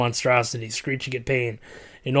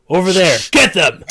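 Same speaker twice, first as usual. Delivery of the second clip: shouting; 6 semitones higher, 10 dB louder than usual. Acted. Guard calling out.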